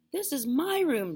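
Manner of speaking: put-on high, loud boyish complaint; protesting boy. A narrator's reading. Boy protesting to grandma in his room, loud protest. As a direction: object loudly. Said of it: "George said".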